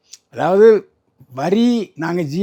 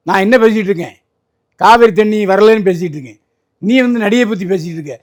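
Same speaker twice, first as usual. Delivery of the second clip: firm, slightly raised telling-off; acted reprimand; 3 semitones higher, 4 dB louder than usual. Leader reprimanding shouting party workers from the stage, firm mock scolding. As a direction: rebuke an unruly crowd, mildly acted. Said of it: "அந்த இடத்துல கண்டிச்சிருந்தாருன்னா".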